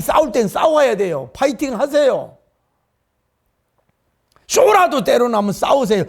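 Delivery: loud, rousing exhortation; fiery preaching. Acted. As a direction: whip the congregation up to fight back. Rousing call to fight.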